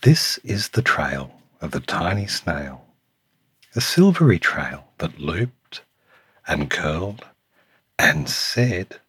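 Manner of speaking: lilting storytime read with punched key words; picture book narration. A narrator's reading. Reading a picture book to Samuel, lilting storytime voice. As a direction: read it to a small child, savouring the rhyme.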